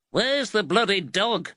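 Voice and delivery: voiced in a Liverpool accent; rough Liverpool thug. A narrator's reading. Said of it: "the Liverpool accent".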